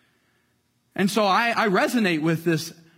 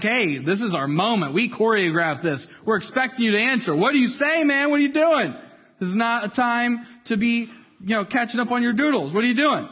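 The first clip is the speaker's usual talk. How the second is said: indignant leaders; 4 semitones higher than usual. Retold or imitated. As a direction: demand he answer, impatient and annoyed. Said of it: "they're like".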